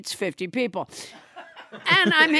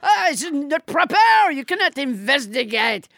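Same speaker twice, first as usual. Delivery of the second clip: put-on French accent. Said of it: "French Trump".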